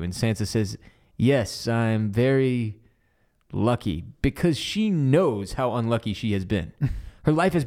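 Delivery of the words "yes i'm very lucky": mock reluctant agreement. Voices Sansa's reluctant agreement.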